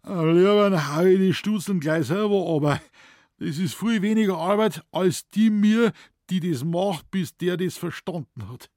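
high, loud huffing Bavarian; puffing forester. A narrator's reading. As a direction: huff it out in exasperation. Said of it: "schnaufte schwer und meinte". (schnaufend, hoch und laut)

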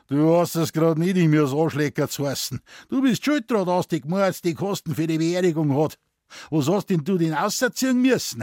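put-on slurring, loud drunk; loud drunken voice. A narrator's reading. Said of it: "mit lauter Stimme, wie sie halt angetrunken eigen ist".

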